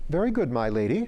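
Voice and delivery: brisk and businesslike. Acted. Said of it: "all business and as brisk".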